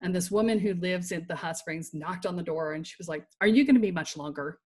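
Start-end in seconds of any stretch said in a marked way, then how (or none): 3.4-4.6 bitchy. Retold or imitated. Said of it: "really bitchy".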